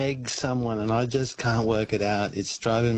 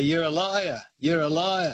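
higher sing-out of a station name; mock station call, pitched up and repeated; other porter's call; 5 semitones higher than usual. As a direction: lightly imitate the answering porter's call. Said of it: "the other guy would say".

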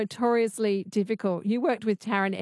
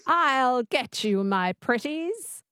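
slow, careful attempt at a witchy twang; host copying the coach's witch, half-confident; trying the witch voice; 3 semitones higher, much slower than usual. Shown as a demonstration. Radio host imitates the witch line on request. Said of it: "Just say that".

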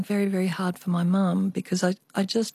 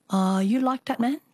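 put-on Chinese accent; 4 semitones higher than usual. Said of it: "I always have to do the Chinese accent".

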